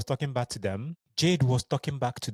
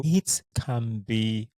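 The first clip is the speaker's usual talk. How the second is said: slow, choked-up words; holding back tears; slower than usual. Real, not acted. Telling listeners about missing safe spaces, fighting tears. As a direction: drag it out as the emotion rises. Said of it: "I am so emotional today".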